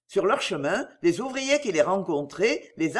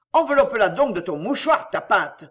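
loud, contemptuous shout; angry shout; 4 dB louder than usual. Acted. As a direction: snap at her, louder. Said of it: "cria-t-il".

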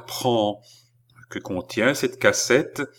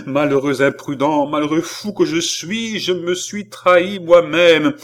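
louder, rising bitter cry; furious self-blame; self-reproach; 4 semitones higher, 6 dB louder than usual. Acted. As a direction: rage at your own folly. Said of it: "s'écria Balsamo".

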